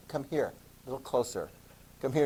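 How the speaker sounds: soft, coaxing menace; lightly creepy beckoning; mock creepy pope. Teacher voices pope luring a critic closer, soft and creepy.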